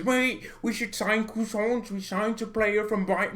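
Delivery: mock Yorkshire accent. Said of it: "these Yorkshire accents".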